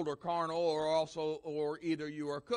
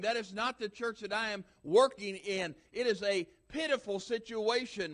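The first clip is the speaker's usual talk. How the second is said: voicing Jesus, raised and sickened; Jesus disgusted; 4 semitones higher than usual. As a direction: let the disgust rise as Jesus. Preacher voices Jesus, disgusted.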